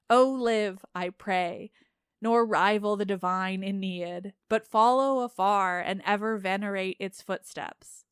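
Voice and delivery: steady, even reading of an epic; measured audiobook narration of ancient verse; story narration. A narrator's reading. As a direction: read it like a translated classic. Reads epic poem aloud.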